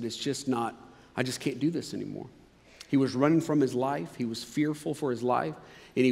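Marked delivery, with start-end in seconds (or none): 0.0-2.3 despairing. Retold or imitated. Elijah voiced despairing.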